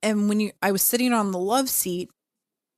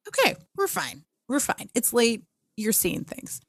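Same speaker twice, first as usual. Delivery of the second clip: nervous self-reassurance; 4 semitones higher than usual. Retold or imitated. Retold self-calming after a fright.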